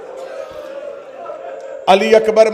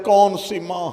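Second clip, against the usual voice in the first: hushed, lower weeping ask; soft tearful question; 4 semitones lower, 10 dB quieter than usual. A narrator's reading. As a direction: ask it softly, grieving. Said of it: "Abbas रो कहते". (धीमे रोते हुए सवाल)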